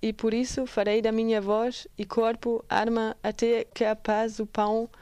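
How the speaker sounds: measured Portuguese poem reading; poem recitation. Acted. Presenter reciting an activist's poem to listeners, poem recitation. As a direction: read it out as spoken verse.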